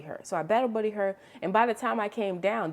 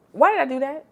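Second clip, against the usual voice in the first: higher and louder, laughing at own mistake; exasperated cry; 7 semitones higher, 8 dB louder than usual. Real, not acted. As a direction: wail it at yourself in disbelief. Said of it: "Girl, why did I do that?".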